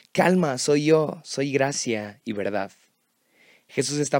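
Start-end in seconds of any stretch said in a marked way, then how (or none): 0.1-2.7 mock shout. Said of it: "Jesús está gritando".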